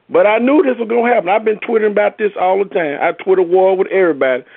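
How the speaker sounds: rushing, riled-up fan vent; worked up. Real, not acted. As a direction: blurt it out all fired up.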